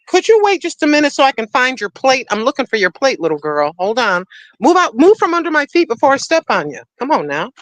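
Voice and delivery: talking to a pet. Real, not acted. Woman telling her cat to wait for its plate, mild high-pitched scolding. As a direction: shoo the little one out from underfoot.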